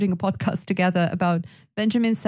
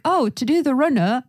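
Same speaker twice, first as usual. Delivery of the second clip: put-on lifted, lightly Northern English accent; 5 semitones higher, 4 dB louder than usual. Retelling own idiom guess, light Northern English accent. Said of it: "like, a Northern accent".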